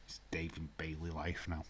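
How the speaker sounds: breathy whispered aside; conspiratorial whisper. Real, not acted. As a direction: whisper it under your breath.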